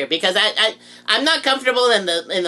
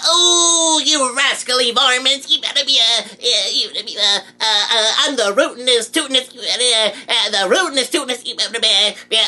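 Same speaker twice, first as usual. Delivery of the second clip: Yosemite Sam voice; slower than usual. Acted. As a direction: bluster like a rootin' tootin' cowboy. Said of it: "I'm Yosemite Sam".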